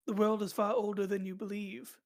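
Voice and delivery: weak attempt at a British accent; half-hearted British accent, like Giles; bad British accent. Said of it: "do a horrible British accent".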